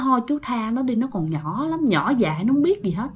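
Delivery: quiet, begging crowd; soft pleading. Retold or imitated. Neighbours softly begging the spirit to leave the girl.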